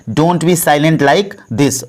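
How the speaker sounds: very slow, every word laid out for learners; slow, careful model sentence; slow teaching demo. Shown as a demonstration. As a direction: spell it out slowly for the class. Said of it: "तो इसको English में बोलेंगे".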